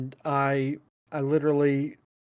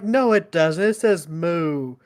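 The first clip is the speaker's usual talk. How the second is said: put-on stubborn kid; 3 semitones higher, 4 dB louder, slower than usual. Kid argues back at the adult, stubborn and loud. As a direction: dig in like a stubborn preschooler.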